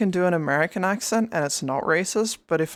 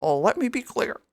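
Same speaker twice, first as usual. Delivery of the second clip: Obama impression; 4 semitones higher than usual. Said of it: "sound like Barack Obama".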